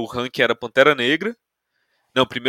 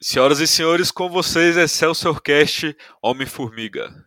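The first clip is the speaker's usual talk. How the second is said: grand entrance announcement. Pretend. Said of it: "como é que eu vou apresentar esse filme".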